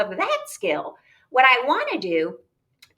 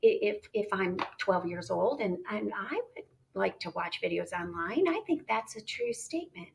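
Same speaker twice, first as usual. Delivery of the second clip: thinking voice; 6 dB quieter than usual. Shown as a demonstration. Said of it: "I'm thinking that".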